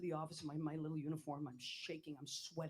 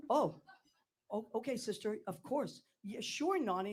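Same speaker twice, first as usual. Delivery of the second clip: higher and louder, a flustered yes; nervous eager agreement; 3 semitones higher, 4 dB louder than usual. Retold or imitated. Girl answering the mother superior, flustered and eager. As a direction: gush a nervous okay to the nun. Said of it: "And I was like this".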